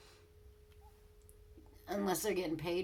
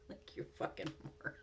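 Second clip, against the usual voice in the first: whispered insult; 7 dB quieter than usual. Real, not acted.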